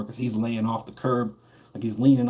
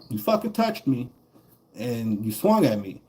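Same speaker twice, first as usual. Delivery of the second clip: indignant retort. Retold or imitated. Retelling the fight, he snaps back at the bully indignantly. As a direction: throw the accusation back at him. Confronting the guy who slapped him.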